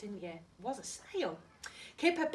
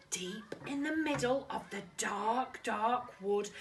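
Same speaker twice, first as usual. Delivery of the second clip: spooky storyteller voice; 2 semitones higher, 3 dB louder than usual. Acted.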